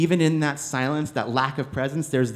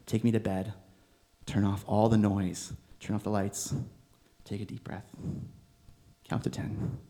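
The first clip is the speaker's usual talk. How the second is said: calming down; 2 semitones lower, 4 dB quieter than usual. Retold or imitated. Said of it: "But I'm like".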